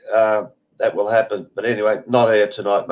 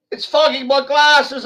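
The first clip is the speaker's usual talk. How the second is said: imitating the woman; 14 semitones higher than usual. Woman answers in retold quarrel.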